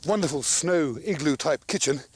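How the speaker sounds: out of breath. Real, not acted. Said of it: "a bit out of breath".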